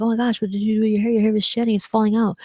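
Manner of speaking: mild imitation of a hairdresser scolding a client; upset stylist. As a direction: scold lightly in mock alarm. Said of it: "the stylist would be upset".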